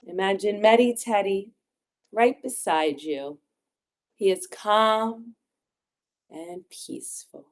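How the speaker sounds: unhurried meditation guide with long pauses; gentle guided visualisation for children. Acted. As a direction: guide small children into calm, phrase by phrase.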